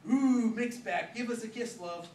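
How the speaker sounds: high, loud, slow, camp cooing; Paul teasing Mick with a mock kiss, high camp coo; camp tease. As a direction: coo it like a cheeky flirt.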